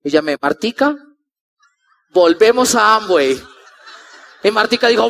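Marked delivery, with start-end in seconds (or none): 2.1-3.4 slow, stretched-out proposal; spelling it out slowly to a friend; drawn-out announcement. Retold or imitated. Calling friend with the news.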